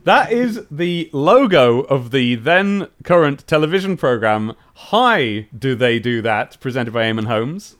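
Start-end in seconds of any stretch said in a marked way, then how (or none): 4.7-6.6 Northern Irish "Hi, do they do that"; Northern Ireland accent. Retold or imitated. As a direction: say it like a Belfast presenter. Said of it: "in a Northern Ireland accent?".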